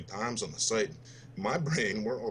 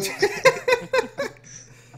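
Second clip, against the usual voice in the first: big burst of laughter; loud high laugh; 11 dB louder than usual. Real, not acted. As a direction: howl with laughter. Everyone cracking up.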